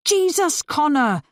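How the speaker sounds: high, loud exclamation of alarm; a sudden shocked shout; startled yell. A narrator's reading. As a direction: cry out as the vinegar spills. Vinegar spills, she yells.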